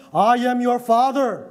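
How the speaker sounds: mock stern father pulling rank; a hint of a stern father talking down; condescending father. Father asserting authority over grown child, mildly condescending. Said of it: "It's condescending".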